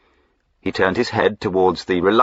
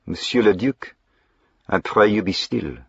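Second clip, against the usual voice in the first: put-on French accent; 4 semitones higher than usual. Jack as French-accented highwayman.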